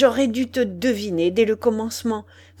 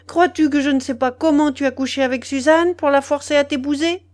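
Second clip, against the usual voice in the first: loud, high-pitched furious tirade; enraged outburst at raised pitch; bursting with fury; 5 semitones higher, 7 dB louder than usual. A narrator's reading. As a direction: explode and hurl one accusation after another. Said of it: "elle éclata".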